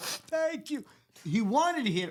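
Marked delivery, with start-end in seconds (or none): 0.0-0.8 play-acted weepy, tearful crying voice, very high. Retelling how a father reacted to hard news, imitating him crying. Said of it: "bottom lip started shaking, go, crying like".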